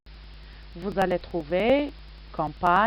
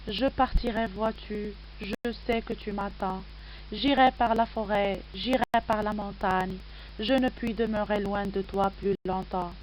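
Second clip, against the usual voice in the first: poem recitation. Acted. Reads the poem aloud.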